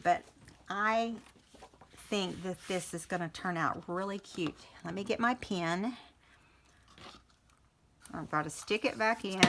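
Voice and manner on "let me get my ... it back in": talking around a pin; pin in mouth. Real, not acted. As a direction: speak with a pin between lips. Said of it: "I have it in my mouth".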